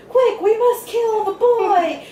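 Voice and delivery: high, slow mock shout of an old man; lightly hammed old Grandpa yelling; imitating Grandpa. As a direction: ham up Grandpa's urgent cry. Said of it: "Grandpa goes".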